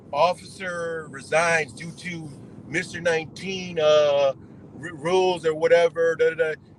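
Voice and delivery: mock news read. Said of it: "There was a news story".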